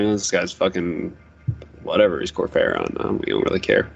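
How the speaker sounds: low, mumbling bored gods; barbarian. Retold or imitated. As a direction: drop deep and careless.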